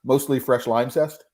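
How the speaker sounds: talking through a mouthful of chocolate; words round a bite of chocolate; mouth full. Real, not acted. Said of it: "My mouth is full of chocolate".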